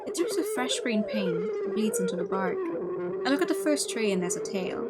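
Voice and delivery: measured read-aloud of inner monologue; story narration. Acted. Player reads the hero's dreamlike inner monologue, story narration. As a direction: narrate it as the dazed protagonist.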